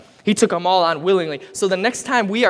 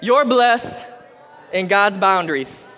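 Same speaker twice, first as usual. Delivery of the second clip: higher, brighter repeat line for the crowd; call and response; 6 semitones higher than usual. Shown as a demonstration. Preacher prompts the stubborn crowd to bless neighbors, higher. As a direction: give it to them to echo back.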